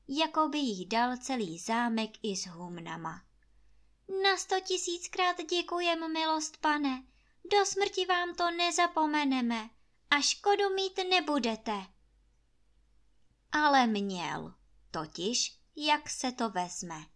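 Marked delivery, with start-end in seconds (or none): 4.2-11.9 much higher, gushing grateful servant; effusive thanks. Acted. Maid Anče thanking her master profusely. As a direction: pour out thanks like given a castle. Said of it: "a děkuje".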